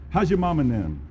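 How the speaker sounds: a light joking Alabama accent on How's your mama name; Alabama drawl. Shown as a demonstration. Speaker jokes about the Alabama greeting, mild Southern accent. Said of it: "another way that we say it in Alabama".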